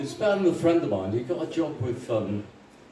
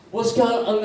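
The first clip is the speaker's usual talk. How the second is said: indignant reaction; 9 semitones higher, 3 dB louder than usual. Acted.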